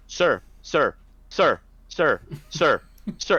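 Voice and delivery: lightly imitated pestering caller; pestering stranger. Imitating a stranger behind the handler seeking attention, insistent. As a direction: repeat it in short, insistent bursts. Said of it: "All of a sudden, behind me, I hear".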